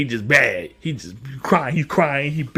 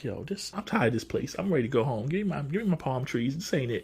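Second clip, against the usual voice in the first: weary Sonic; 12 dB quieter than usual. Retold or imitated. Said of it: "Sonic is just like".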